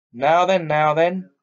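firm, hearty working man; lightly voiced firm cabman; hearty cabby voice. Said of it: "A good, firm, hearty voice".

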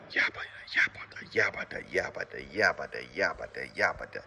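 soft repeated "yabba" babble; low, half-whispered yabba-yabba mouth noise; rapid yabba noise. Shown as a demonstration. Coach demonstrating for men how to start back, soft rhythmic babble.

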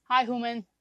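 playful greeting as the cat. Pretend. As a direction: speak as the cat. Putting on a cat voice.

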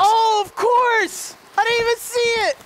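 high loud excited realization; finally figuring it out; surprised realization. Real, not acted. Sudden realization.

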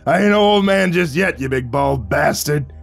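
high start, slowing into the insult; calling back. Acted. Vic answering Len's jibe, calling back. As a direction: fire back a jovial retort. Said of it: "He called back".

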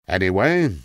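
a hint of a rambling old tramp, musing; an old vagrant drifting into memory, lightly done; a lightly voiced tramp reminiscing to a young listener. Tramp continues tale.

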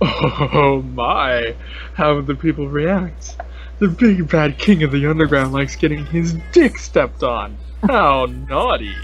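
lightly voiced theatrical character read; a hint of a showy game-villain voice; Mettaton. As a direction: ham it up a little, stretching the last phrase. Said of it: "read it in my Mettaton voice".

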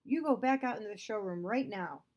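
stern command; ordering. Acted. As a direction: order him out sharply. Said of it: "Father ordered".

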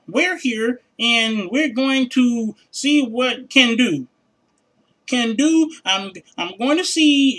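very slow, broken-English mock agent; imitating a call-center rep. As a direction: spell it out haltingly like a confused phone rep. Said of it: "no English speaking motherfuckers".

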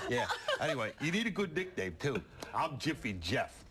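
put-on dazed punch-drunk fighter voice; punch-drunk boxer. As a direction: play a punch-drunk boxer, muddled and laughing. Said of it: "Jiffy Jeff Jaworski, Punch Drunk Fighter".

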